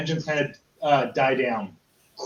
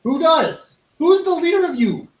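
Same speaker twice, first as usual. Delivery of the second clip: loud demand; 13 semitones higher, 5 dB louder, slower than usual. Acted. Goblin demanding leader.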